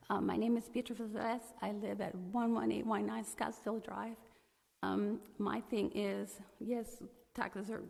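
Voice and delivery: hoarse, strained losing voice; losing her voice. Real, not acted. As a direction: speak through a hoarse, failing voice. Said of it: "I'm losing my voice".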